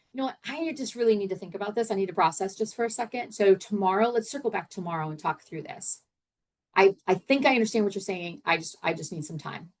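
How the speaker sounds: quick, sincere and personal; better way to say it. Shown as a demonstration. Coach modelling how to pause a heated conversation, sincere. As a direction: own the need for time, honestly. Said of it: "So it's more like".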